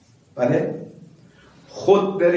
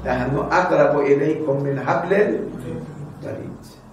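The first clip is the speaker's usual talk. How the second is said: slow Quranic recitation; slower than usual. Acted. Preacher quoting scripture to listeners, slow intoned. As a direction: intone the Arabic verse slowly.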